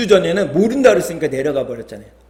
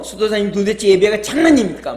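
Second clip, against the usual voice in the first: mild mock yell, raised pitch; angry shouting; 5 semitones higher, 4 dB louder than usual. Abbot scolds the monk after worship, mild mock yell. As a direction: imitate an angry scolding, half-hearted shout. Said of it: "소리를 지르면서 화가 나가지고요".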